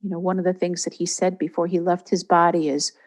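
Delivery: calm guiding voice with long pauses; guided meditation. Real, not acted. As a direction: ease them gently into a receptive state. Leads a guided visualisation.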